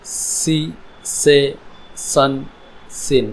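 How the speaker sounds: very slow, drawn-out S words: सी से सन, सिन; S sound shown. Shown as a demonstration. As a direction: model the S, one spaced word at a time in सी से सन, सिन. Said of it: "sound निकली है वो है स". (सी से सन, सिन धीरे, स की साफ़ आवाज़)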